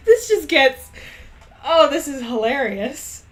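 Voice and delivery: helpless real giggles; can't get through the line; laughing. Real, not acted. Breaks up laughing mid-reading.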